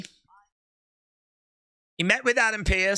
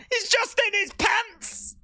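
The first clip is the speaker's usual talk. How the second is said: higher, slow disbelief; incredulous; 10 semitones higher than usual. Real, not acted. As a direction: stretch it out in amazement. Repeating in disbelief.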